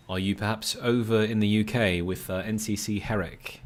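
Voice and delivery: put-on playful British accent, lightly done. Streamer asking a viewer if they're over in the UK, British accent. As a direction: put on a London English accent. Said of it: "the accent was good".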